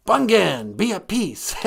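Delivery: a hint of caricature politician drawl; George W. Bush. Caller repeats the Ojibwe word, amused impression. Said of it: "is this George W. Bush?".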